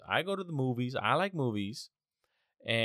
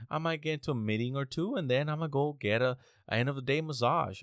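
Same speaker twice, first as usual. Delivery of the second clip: mocking tech worker; 3 semitones higher than usual. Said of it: "videos that these people be posting".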